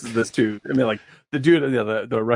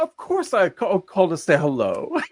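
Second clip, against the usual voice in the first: higher, sweetly wounded insistence; passive aggressive; 6 semitones higher than usual. Retold or imitated. President insisting to Dmitry, passive aggressive. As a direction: sound hurt that he'd doubt you. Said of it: "he's so passive aggressive".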